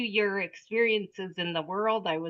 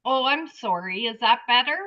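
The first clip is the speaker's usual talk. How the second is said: raised voice, checking it carries; speaking up; 4 semitones higher, 7 dB louder than usual. Real, not acted. Questioner apologizing to a speaker who couldn't hear, speaking up. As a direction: speak up so they can hear you.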